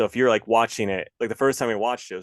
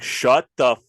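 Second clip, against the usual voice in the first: snapping at them; 3 semitones higher, 7 dB louder, slower than usual. Retold or imitated. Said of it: "finally I was like".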